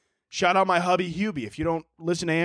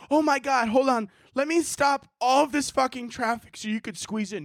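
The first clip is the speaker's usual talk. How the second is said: higher-pitched pretend courteous driver; mock politeness; 5 semitones higher than usual. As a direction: gush with sarcastic, exaggerated courtesy. Mocks an imagined overly polite driver.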